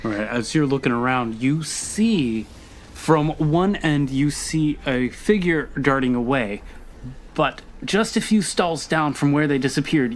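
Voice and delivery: ordinary talk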